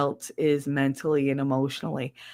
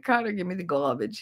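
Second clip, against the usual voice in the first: put-on R-dropping accent, "gah-bidge", softer; quick request in a thick accent; thick regional accent; 5 dB quieter, faster than usual. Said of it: "it's gotten way thicker".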